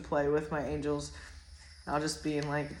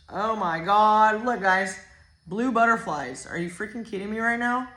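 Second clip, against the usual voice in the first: amazed excitement; 4 semitones higher, 6 dB louder than usual. Real, not acted. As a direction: blurt it out in delighted disbelief. Amazed at butterflies on card.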